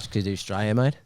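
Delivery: subtle Australian twang; understated Australian accent. Shown as a demonstration. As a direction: echo it with an Aussie twang. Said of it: "a little twang".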